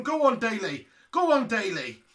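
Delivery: loud urging from a football fan; cheering on. Real, not acted. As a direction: egg the penalty taker on loudly. Urging on the penalty taker.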